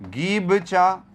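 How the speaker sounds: गीबचा said slowly, syllable by syllable; scrambled nonsense word. Shown as a demonstration. Teacher sounds out a jumbled word for the class. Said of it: "तो ये हो गया".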